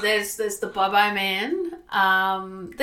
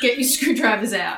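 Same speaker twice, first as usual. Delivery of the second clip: mobster voice. Pretend. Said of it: "Is that your mobster voice?".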